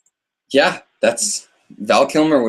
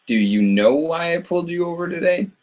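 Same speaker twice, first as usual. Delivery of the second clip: higher, slightly sing-song questioning; lightly put-on officer, pitch climbing and held up; acting out a cop's question; 7 semitones higher than usual. Streamer quoting the pulled-over question, lightly acted.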